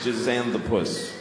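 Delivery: slow, firm naming of Zan the Puss; slow deliberate naming. Shown as a demonstration. To the audience, settling on a name, said slowly. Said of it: "Let's just call him Zan the".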